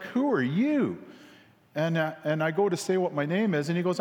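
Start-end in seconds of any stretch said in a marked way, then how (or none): 0.0-1.0 high, sharp challenge; suspicious husband. Retold or imitated. Husband coming down the hallway to the stranger, sharp and high. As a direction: size up the intruder.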